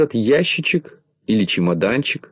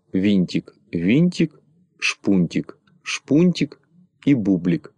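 slushy sh for s; slower than usual. Acted. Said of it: "зашепелявил гнусавым голосом".

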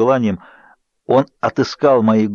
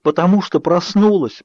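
sobbed cry; 7 semitones higher than usual. A narrator's reading. Bella sobbing to Edward why she cries, tearful wail. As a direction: wail it through tears. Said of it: "прорыдала я".

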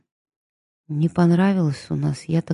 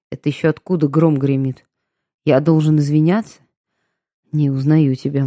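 fast, louder indignant outburst; 5 dB louder, faster than usual. Acted. Ilya retorting to Raisa, fast and louder in indignation. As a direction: snap back, offended and loud.

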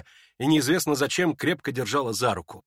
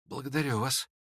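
quiet thanks; 7 dB quieter than usual. Acted. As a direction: murmur it weakly. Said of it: "тихо продолжал Ипполит".

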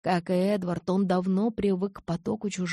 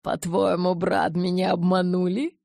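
mock surprise; 5 dB louder than usual. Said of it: "Притворно удивился Ара".

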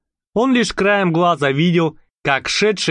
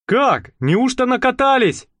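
disappointed; 9 semitones higher than usual. A narrator's reading. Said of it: "разочарованно спросил шофёр".

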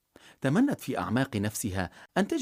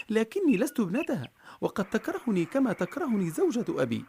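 put-on lightly higher little girl, worried; a worried young girl, voiced a bit higher; 9 semitones higher than usual. A narrator's reading. Girl Marjana voiced in story.

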